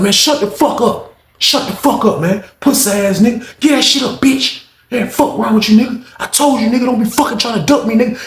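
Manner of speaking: high, heated cursing; furious yelling. Retold or imitated. Roommate cursing out the man on the floor, high furious yell. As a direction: tear into him with high angry cursing.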